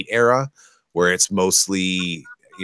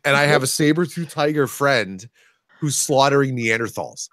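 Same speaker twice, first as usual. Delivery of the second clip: high-pitched gushing wonder; retold giddy excitement; 7 semitones higher than usual. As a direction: marvel at your own dream come true. Retelling delight at a dream game.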